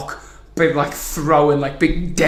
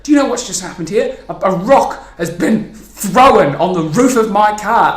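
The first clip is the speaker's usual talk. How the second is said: higher, indignant retold complaint; agitated neighbour; 5 semitones higher, 6 dB louder than usual. Car owner to the boy's mum, agitated. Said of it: "still quite agitated".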